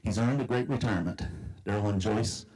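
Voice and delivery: rhyming poem recited aloud; lilting recitation of rhymed verse; cowboy poetry. Acted. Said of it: "I've written a cowboy poem".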